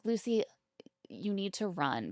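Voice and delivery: urgent whisper to Lucy; whispered warning. Pretend. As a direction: hiss the warning under your breath. Warning Lucy in imagined aside.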